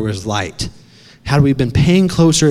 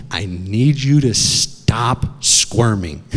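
father's slow instruction; 3 semitones lower, slower than usual. Retold or imitated. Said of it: "he's like".

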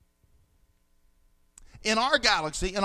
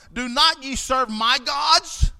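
slow, louder demand, pitch a bit up; angry king; 3 semitones higher, 3 dB louder, slower than usual. Acted. Nebuchadnezzar demanding of the three men, angry. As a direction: press every word like a furious king.

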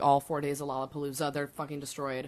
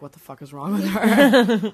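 incredulous outburst; 2 semitones higher, 11 dB louder, slower than usual. Retold or imitated. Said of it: "be like".

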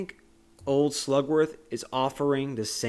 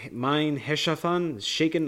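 raised, slow mock-German delivery; 5 semitones higher, 3 dB louder than usual. Retelling Wonka switching languages, mock German. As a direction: imitate Wonka speaking rough German. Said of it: "starts speaking German".

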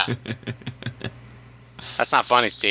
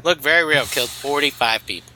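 sports newscaster cadence; rally-style newscaster read. Pretend. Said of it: "like, a, a newscaster voice, but ... like a Trump voice at a rally".

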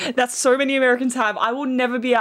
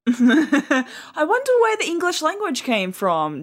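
drawn-out sarcastic musing, then quicker; mock wondering; 3 semitones higher, slower than usual. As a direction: play dumb with slow, exaggerated wonder. Mocking the Americans' obvious mistake.

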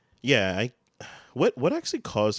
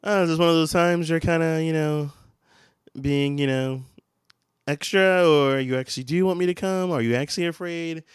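high and loud, baffled imitation of Mindy; high excited mock question; 8 semitones higher, 8 dB louder than usual. Imitating Mindy's confused question, high and loud. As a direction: pitch it way up, incredulous. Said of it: "it's like".

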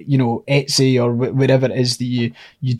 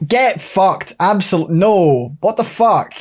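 high, outraged disbelief; 5 semitones higher, much slower than usual. Real, not acted. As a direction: react in shocked outrage. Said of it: "I was waiting for that reaction".

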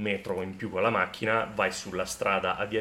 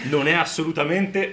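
loud, slow, high pompous politician; La Russa impression; 6 semitones higher, 5 dB louder than usual. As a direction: mimic a pompous politician's declaration. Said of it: "Questa era l'imitazione che facevano di La Russa".

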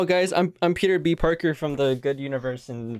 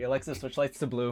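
softer aside to a voice assistant; quiet voice command; 8 dB quieter than usual. Real, not acted. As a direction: give the device a soft, even command.

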